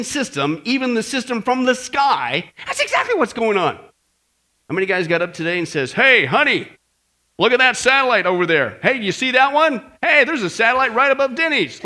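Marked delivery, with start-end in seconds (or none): 5.9-11.8 loud-ish, eager calling out; mock excitement. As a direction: play a sightseer pointing things out. Acted man excitedly pointing out satellites.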